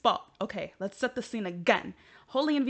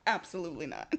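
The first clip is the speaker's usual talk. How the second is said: laughing refusal; 3 semitones lower, 4 dB louder, faster than usual. Real, not acted. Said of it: "Like, no".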